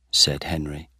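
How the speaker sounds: ordinary delivery, nothing marked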